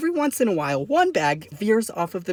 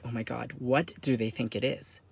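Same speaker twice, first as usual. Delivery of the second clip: worried aside; 4 semitones lower, 7 dB quieter than usual. Acted. Worried aside as agents whisper.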